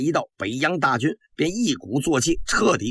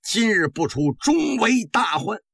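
bitter declamation. Acted. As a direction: denounce him to the throne, drawing out the last warning. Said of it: "梁璧也咬牙切齿，大声地奏道".

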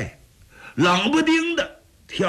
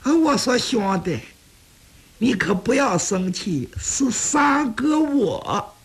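put-on teasing older brother; 5 semitones higher, slower than usual. Xu Liang reveals himself teasingly.

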